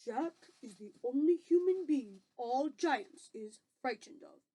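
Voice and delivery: friendly giant with careful emphasis; lightly voiced BFG, earnest. BFG explains Jack to Sophie, lightly voiced earnest giant.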